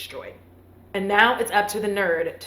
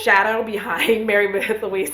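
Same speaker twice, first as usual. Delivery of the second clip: bug noise; 4 dB louder than usual. Shown as a demonstration. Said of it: "that's the noise I made".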